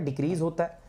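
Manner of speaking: ordinary delivery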